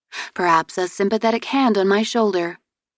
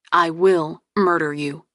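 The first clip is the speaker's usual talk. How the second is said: mock threat. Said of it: "he vowed".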